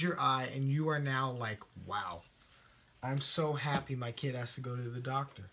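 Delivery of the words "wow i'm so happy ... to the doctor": mock wonder. Mock delight over a calendar reminder.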